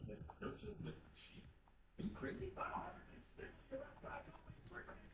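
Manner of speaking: squeaky outraged officer; incredulous. Acted. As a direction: scoff at the idea of talking to sheep. Incredulous reply, high voice.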